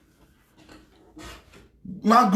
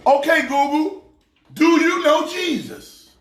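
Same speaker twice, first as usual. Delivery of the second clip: repeating to voice assistant; 5 semitones higher than usual. Real, not acted.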